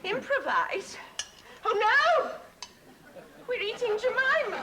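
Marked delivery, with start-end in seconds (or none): 1.6-4.6 louder and higher, dismayed gasp of discovery; appalled as it dawns on her; horrified realisation. Acted. Wife realising dinner is their pet duck, aghast.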